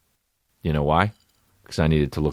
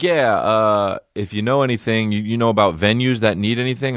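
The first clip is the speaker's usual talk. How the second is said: hesitant eager fan; 6 semitones higher, 3 dB louder than usual. Retold or imitated. Imitates the fan again.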